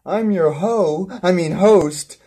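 swooping, singsong host welcome; show host intro. Acted. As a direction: open the show like a bouncy host.

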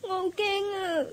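a shaky, tearful admission of fear; frightened and tearful. Acted. Girl tells her teacher she is scared, close to tears. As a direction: still shaken from the dream.

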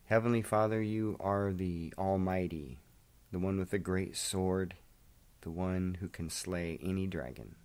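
hushed, reverent closing prayer; quiet earnest prayer. Acted. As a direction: speak it softly to God, slowing down.

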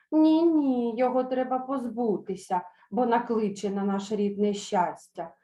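firm mock indignation; insistent. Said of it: "мовили старі кобили".

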